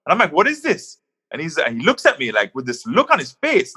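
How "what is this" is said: higher, puzzled question; mock astonished what; retold surprise.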